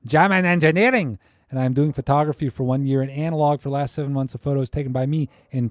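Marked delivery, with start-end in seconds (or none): 0.1-1.2 loud hammed-up German accent; exaggerated comic German accent; bad German accent. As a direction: belt it out in mock German. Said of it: "I can't do a German accent".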